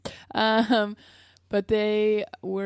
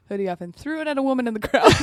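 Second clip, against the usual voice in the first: excited; 4 semitones higher, 7 dB louder, faster than usual. Real, not acted. Excited telling.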